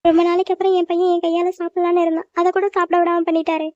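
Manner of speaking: mildly tearful complaint; understated weepy grievance; tearful lament. Acted. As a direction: lament it with a touch of crying. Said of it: "ஏன் இப்ப இப்படி அழுகுறீங்க".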